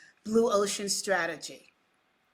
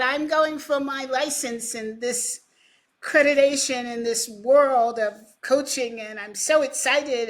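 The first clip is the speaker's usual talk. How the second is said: louder, slightly raised eager voice; retold excitement; 4 semitones higher, 5 dB louder than usual. Colleague announcing his new coaching license, excited. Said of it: "he was all excited".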